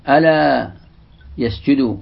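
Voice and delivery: ألا called out loud and high, then a pause before يسجدوا; recited variant reading. Shown as a demonstration. Teacher reciting the variant ألا يسجدوا to students, loud call on ألا. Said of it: "قرئت".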